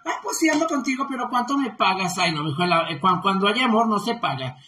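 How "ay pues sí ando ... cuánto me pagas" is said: high, quick mock agreement, easing at the question; mimicked old men. Streamer retelling men's price for romance, lightly mimicked. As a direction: lightly imitate the men bargaining. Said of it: "muchos viejos de repente dicen".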